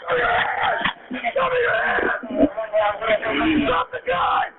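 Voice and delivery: urgent commanding shout; shouting commands. Real, not acted. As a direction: yell police commands at full force. Officer shouting commands at gunman.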